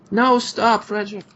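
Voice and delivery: put-on high, loud cry to stop the boy; mother calling her son off the warrior; alarmed plea. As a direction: snap the child back in a panic.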